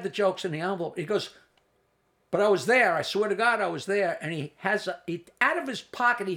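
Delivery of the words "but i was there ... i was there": loud, high protest; insisting loudly. Retold or imitated. Richie insisting to Jackie he was there, loud protest. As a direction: swear you were really there.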